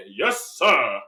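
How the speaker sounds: low, loud mock agreement; mock eager Lucy. Lucy accepts the creepy stranger's offer, mock eager. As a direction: play Lucy jumping at a bad offer. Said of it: "Lucy ignored all those red flags and said".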